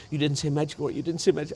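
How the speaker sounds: high-pitched, disbelieving repetition; imitated astonishment. Car buyer hearing him name Medjugorje, astonished. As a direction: imitate her astonished outburst, pitched well up. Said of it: "she went like this".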